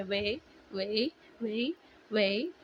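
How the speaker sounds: very slow, stretched "वे, वे" as in Korean dramas; drawn-out K-drama "वे". Shown as a demonstration. Vlogger showing viewers the K-drama "वे", slow and drawn. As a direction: stretch each "वे" out long like a drama line. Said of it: "वे भी सुना होगा आप लोगों ने बहुत सारे के dramas में".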